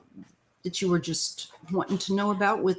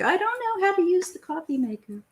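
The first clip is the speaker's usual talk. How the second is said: mock husband; 12 semitones higher than usual. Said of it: "my husband's like".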